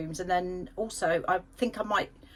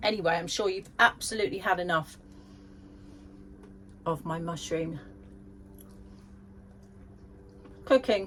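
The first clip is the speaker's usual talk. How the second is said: talking with mouth full of food. Speaker tastes their own mushroom cooking and addresses viewers, talking with mouth full. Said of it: "And I'm speaking with my mouth full".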